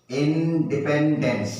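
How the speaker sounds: said slowly and clearly. Shown as a demonstration. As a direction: drag it out for the kids. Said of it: "धीरे धीरे बोलो". (धीरे-धीरे साफ़ बोलना)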